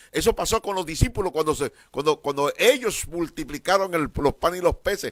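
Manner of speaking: loud, rising preacher's cry; sermon shout building up; fervent preaching. Real, not acted. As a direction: lift the room with it. Preaching at full force.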